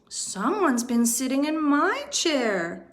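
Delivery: a lightly voiced mama bear cry. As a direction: echo him as a fretful mother bear. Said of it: "cried Mama Bear".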